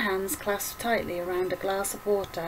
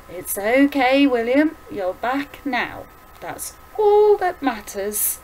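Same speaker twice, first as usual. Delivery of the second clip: higher, slowing, comforting voice; reassuring mother; 4 semitones higher, 5 dB louder than usual. Acted. Mother comforts her apologizing son, slow and reassuring. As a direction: draw the words out to reassure.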